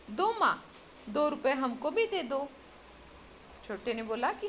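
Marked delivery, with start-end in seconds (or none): 0.1-2.5 put-on a touch of a sulky child's whine; mild irritated demand. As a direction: nag mother for the money, mildly annoyed. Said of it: "और चिढ़कर बोला". (चिढ़कर बोलता छोटा बेटा, हल्की झुंझलाहट)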